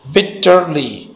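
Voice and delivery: slow "bitterly" in three beats, bit, ter, ly; each syllable of "bitterly" drawn apart. Shown as a demonstration. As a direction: divide "bitterly" slowly into three pieces. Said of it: "इसमें तीन syllable है".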